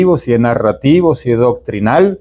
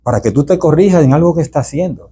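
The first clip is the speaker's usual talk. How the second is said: sweet letter tone. Shown as a demonstration. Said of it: "va en ese tono así".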